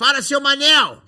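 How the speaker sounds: very loud, high-pitched shouting. Retelling how a very tall man entered the bar, retelling a shouted greeting. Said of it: "ele já entrou dando um grito".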